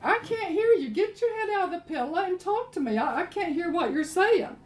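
a lightly voiced wife coaxing her sulking husband. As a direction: coax him out of the pillow. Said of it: "And she says".

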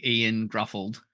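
Ian said plainly as "EE-an", Gruffled as "GRUFF-uld"; mispronounced name. Shown as a demonstration. Host confesses his own mistake, mispronouncing it "Ian Gruffled". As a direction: garble the surname into "Gruffled", after an ordinary "Ian". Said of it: "I've definitely been calling him".

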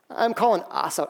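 laughing through calling us out; chuckling as he says calling us out. Real, not acted. Pastor repeating his point to the church with a laugh.

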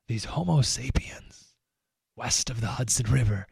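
observe them in a low hush like wildlife; mock safari observer. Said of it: "as if the reporter went on a safari".

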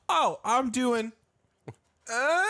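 slow creaky drawn-out "doing"; creaking groaning door voice. Retold or imitated. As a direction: creak the words like an old door. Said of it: "You're doing sounds like a creaky door".

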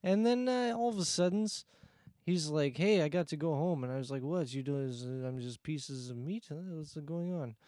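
put-on broken English in a Borat-style Russian accent; lightly put-on Russian accent, bragging. Igor the Russian guest tells his karaoke night, Russian accent. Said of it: "your accent kinda trailed off".

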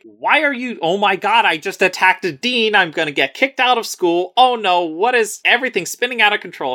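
hammed-up freakout about getting expelled; panicked Rutha. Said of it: "and Rutha is like".

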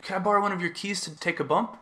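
polite request in a rough British imitation; bad British accent. Intruder asking to borrow a key, badly imitated British accent. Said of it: "I'm really bad at doing British accents".

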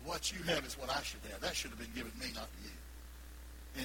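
low, fading to a whisper; grudging envious mutter; voicing envy. Preacher voicing envy, low and fading. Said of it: "envy is".

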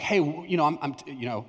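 hesitant, stumbling start; ashamed. Retold or imitated. Teen admitting something to his student pastor, ashamed. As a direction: trail off haltingly as if ashamed. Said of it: "I was really ashamed".

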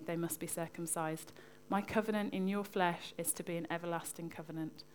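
measured, even Bible reading voice; scripture reading. Acted. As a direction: read the passage out plainly and steadily. Reads a Bible passage aloud.

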